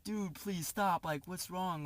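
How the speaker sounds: mildly mock-desperate, stretched out; retold anxious plea. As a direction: imitate yourself pleading with an attacker. Acting out his scared plea.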